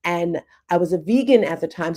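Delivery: ordinary delivery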